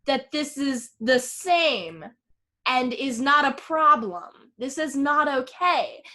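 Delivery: slow, emphatic confrontation; indignant. Retold or imitated. Retelling a woman confronting her boyfriend, slow and indignant. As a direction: spell out the outrage word by word. Acted argument, Danny confronts Chris.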